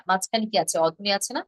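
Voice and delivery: normal talking voice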